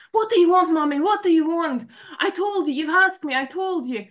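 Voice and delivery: high, loud angry yelling; daughter screaming. Retold or imitated. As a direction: shout back at mom in frustration. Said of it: "She's basically screaming her pain out".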